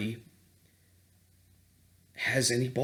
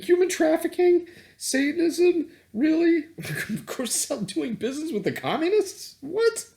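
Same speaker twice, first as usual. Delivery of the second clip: much higher, louder disbelief; incredulous; 4 dB louder than usual. Real, not acted. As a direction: scoff at the absurdity, pitch climbing. Incredulous at accusations.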